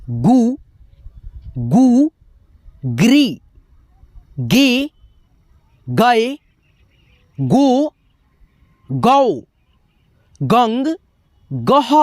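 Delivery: each form from "गु" to "गह" held by itself, mostly lifting at the end; barakhadi drill. Shown as a demonstration. Teacher reciting for students to learn, separated "गु" to "गह". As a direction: model each syllable from "गु" to "गह" with pauses between. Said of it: "अब इसका बारह खड़ी आप लोग सीखो".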